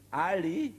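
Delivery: calling a name across the trenches; shouted name. Acted. Soldier shouting across the trench to the enemy, loud call. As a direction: yell the name out high. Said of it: "hat er geschrien".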